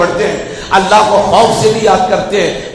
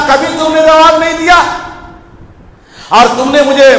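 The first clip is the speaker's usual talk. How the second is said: raised voice calling down from on high; higher, commanding divine voice rebuking his servants; voice of God; 4 semitones higher than usual. Acted. God rebukes servants crying out in hell, higher commanding voice. God answers sinners from throne.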